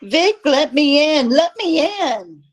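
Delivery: high, loud, desperate plea to be let in; terrified pleading. Acted. Terrified neighbour begging Vic to let her inside, high and loud. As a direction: beg through the door in panic. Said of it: "practically climbed him in terror".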